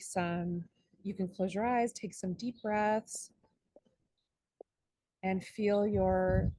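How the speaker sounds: slow, calm meditation guide with long pauses; guided meditation. Acted.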